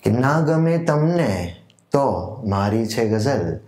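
slow, measured verse with lilting, drawn-out phrase ends; ghazal recitation. Acted. Poet presenting his own ghazal to literature lovers, measured recitation. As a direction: recite it like a mushaira poet, letting key words swell and fall.

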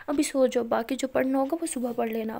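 loud, firm order to sleep. Acted. Elder sister orders Pari to stop studying, loud firm order. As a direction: put your foot down.

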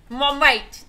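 badly faked Scottish accent; mock Scottish accent. Streamer addressing a mate, mock Scottish accent. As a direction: toss in a hammy Scottish bit. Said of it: "I know my accent's really bad".

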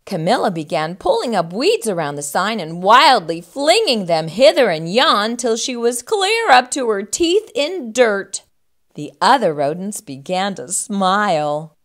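lively storybook reading; expressive picture-book narrator; children's story narration. A narrator's reading. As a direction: read to young children with bouncing emphasis.

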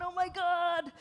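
a hint of a two-year-old discovering rooms; playful mock toddler amazement; toddler wonder. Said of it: "You're like, two years old. You're running through your castle going".

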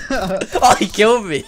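high loud exclamation; loud outcry. Real, not acted. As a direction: cry out in shock. Killed suddenly in game.

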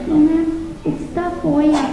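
put-on high, careful little girl voice; child correcting teacher. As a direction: correct her politely as a schoolgirl. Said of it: "she'd say".

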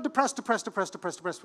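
mock depressed. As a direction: pitch and volume sliding steadily down. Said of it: "And then we go down".

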